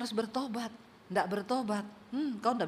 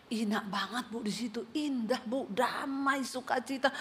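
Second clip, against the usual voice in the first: soft wonder; 5 dB quieter than usual. Retold or imitated. Quoting man softly about heaven.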